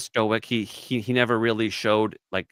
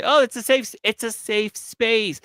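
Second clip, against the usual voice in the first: mocking safe space; 11 semitones higher, 3 dB louder than usual. A man mocks women saying it's a safe space, high sing-song. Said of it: "When you say".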